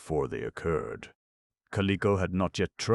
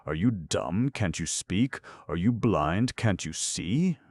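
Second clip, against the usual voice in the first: exasperated; 4 semitones higher, 4 dB louder than usual. Acted. King berates silent Goof.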